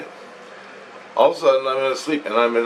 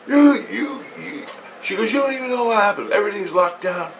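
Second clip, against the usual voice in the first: higher, excited wife's voice; 9 semitones higher than usual. Retold or imitated. Wife rushing in to tell him what happened, excited and higher. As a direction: voice his wife bursting with news.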